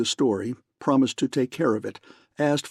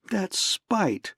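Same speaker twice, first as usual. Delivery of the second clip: angry cry; 8 semitones higher than usual. A narrator's reading. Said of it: "the girl cried".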